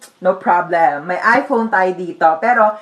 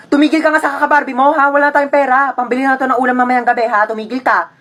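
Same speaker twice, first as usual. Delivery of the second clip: fast, exasperated telling-off; scolding mother; 3 semitones higher than usual. Acted. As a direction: shut down a nagging child. Mother scolds nagging child. (nanay na nanenermon)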